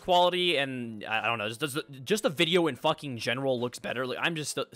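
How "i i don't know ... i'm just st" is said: stuttering out of anger; words catching and repeating. Real, not acted. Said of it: "I'm stuttering 'cause I'm so mad".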